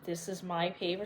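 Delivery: soft dangerous warning; very quiet. Acted. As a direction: hush it down coldly. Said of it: "Elfie got very quiet".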